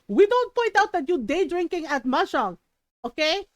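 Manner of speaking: imitating an indignant Filipino mom; lightly put-on accent, accusing; mom calling out. Mom confronting a day-drinking tita, calling her out. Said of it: "my mom called her out".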